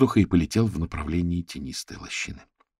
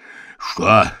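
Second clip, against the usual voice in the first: bear growl; much slower than usual. A narrator's reading. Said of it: "прорычал он".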